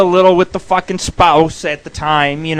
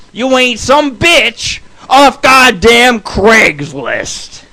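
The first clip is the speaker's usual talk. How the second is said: slow, higher leering drawl; sleazy pickup line; 5 semitones higher, slower than usual. Retold or imitated. Crude pickup line to dancers.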